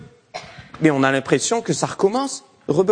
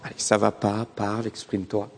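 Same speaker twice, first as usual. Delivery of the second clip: gentle coaxing; 3 semitones lower, 6 dB quieter than usual. Retold or imitated. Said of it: "dire à mon enfant".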